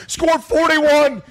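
high and drawn out in disbelief; slow, high, astonished punchline; amazed emphasis. Real, not acted. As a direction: stretch it slowly, marvel at the number. Stressing the shocking score.

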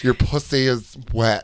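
dialect drill. Acted. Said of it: "It's like a test every day".

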